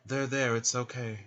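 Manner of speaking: lightly acted soothing; mock comforting. Man patting the weeping woman's back, mock comforting. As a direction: play at consoling someone with a pat. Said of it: "she gets a pat on the back".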